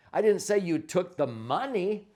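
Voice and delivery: didn't stressed with a falling end. Shown as a demonstration. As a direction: lean on didn't, let the end fall. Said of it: "emphasize each one of the words differently".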